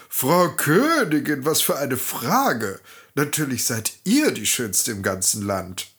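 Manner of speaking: lightly voiced flattering mirror; fawning, sweet-talking magic mirror. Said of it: "antwortete schmeichelnd".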